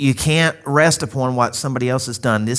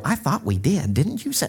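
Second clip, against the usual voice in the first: higher, softly muddled questioning; confused old parents; 4 semitones higher, 3 dB quieter than usual. Retold or imitated. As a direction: play parents doubting their own memory. Voices confused aging parents.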